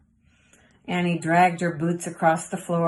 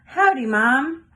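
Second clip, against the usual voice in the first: higher, louder slow call of howdy; hollered; 5 semitones higher, 5 dB louder, slower than usual. A narrator's reading. Girl hollering good morning to her mom, high and loud. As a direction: holler it to the house. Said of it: "and hollered".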